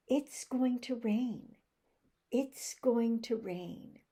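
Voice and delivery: contracted IT'S, words linked slowly; finger technique. Shown as a demonstration. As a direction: model the joined-up sentence slowly and clearly. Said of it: "I use the finger technique".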